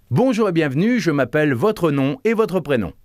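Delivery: smiling greeting. Shown as a demonstration. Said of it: "Vous souriez".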